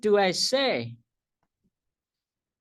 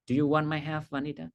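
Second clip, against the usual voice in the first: serious, no smile; faster than usual. Shown as a demonstration. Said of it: "And I don't smile".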